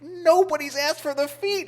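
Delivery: high, rising "Nobody's asked for the feet", in disbelief; incredulous echo. Retold or imitated. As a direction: repeat it back, stunned she never got asked. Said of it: "I looked at her in disbelief".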